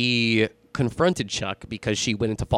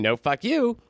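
retold screaming; 9 semitones higher than usual. Pregnant woman confronting Chuck, retold screaming. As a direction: imitate her screaming, held back in volume. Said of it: "she was screaming".

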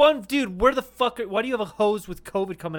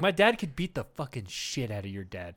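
mock tough guy; 3 semitones lower than usual. Grade-school dad threat.

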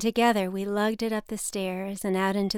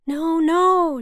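louder and higher hurried no no; urgent call; 8 semitones higher, 8 dB louder than usual. A narrator's reading. Waitress rushing over, calling out loud and high. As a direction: call out to stop her. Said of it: "she said, running over".

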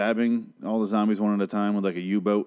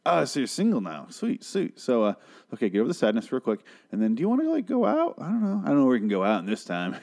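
mock flirty; 4 semitones higher than usual. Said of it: "I was like".

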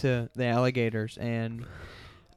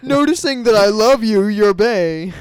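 much higher, louder put-on voice; squeaky voice; 7 semitones higher, 11 dB louder than usual. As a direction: coo it in a squeaky voice. Reading text in voice.

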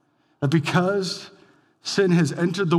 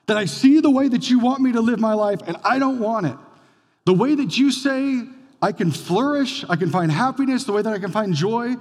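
raised, emphatic voice of a rebel; defiant declaration; 5 semitones higher than usual. Acted. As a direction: declare independence from God, pitched up and forceful. Voicing humanity's defiance toward God.

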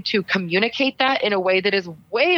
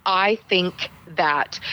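hedging; much slower than usual. Shown as a demonstration. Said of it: "anything that sounds like".

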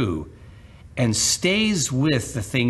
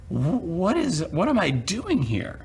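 panicked; 7 semitones higher than usual. Retold or imitated. Peter panicking while sinking.

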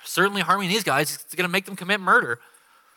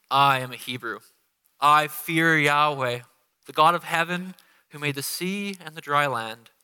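mock pious; 2 semitones lower than usual. Jonah telling the sailors he fears Yahweh, hollow pious. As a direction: sound holier than you are. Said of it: "as I was alluding to with my voice".

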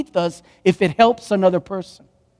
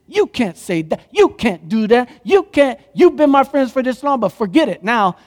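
mock indignation; 4 semitones higher than usual. Mocked voice of rejecting others.

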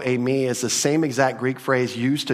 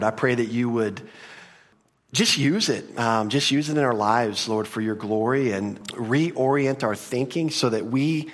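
closing prayer. Acted. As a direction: pray gently to close.

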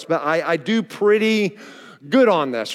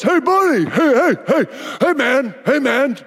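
calling out; 5 semitones higher than usual. Retold or imitated. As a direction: shout after a stranger across the street. Stranger calling after the speaker.

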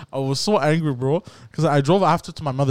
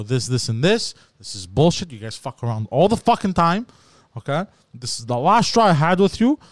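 retold angry rant; 2 semitones higher than usual. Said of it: "Bro, I was so angry".

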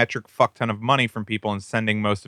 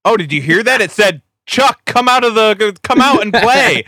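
high, loud excited ghost-show host voice; mocking ghost hunter; 10 semitones higher, 8 dB louder than usual. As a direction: ham up a breathless ghost hunter. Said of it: "ghost hunters is when they're like".

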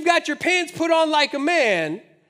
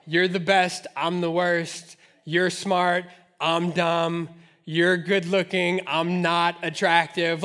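groveling apology; 6 semitones lower, slower than usual. Retold or imitated. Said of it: "that's how Job presents himself before God".

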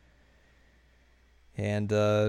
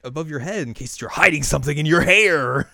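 higher, insistent mock official; acted objection; 4 semitones higher, 6 dB louder than usual. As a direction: explain the rule with mock fussiness. Acted refusal of passport photo.

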